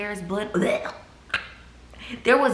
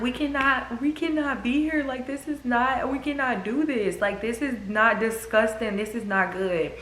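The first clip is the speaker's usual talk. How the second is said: retold panic; 5 semitones higher than usual. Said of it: "I was just like".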